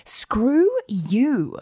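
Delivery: whispered, defiant; a whispered challenge to the haters. Acted. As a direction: hiss it back at the doubters in a whisper. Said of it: "fueled your fire even more to be like".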